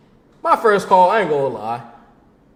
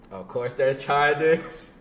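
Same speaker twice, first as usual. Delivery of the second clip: slow punchline; much slower than usual. Acted. Same punchline again.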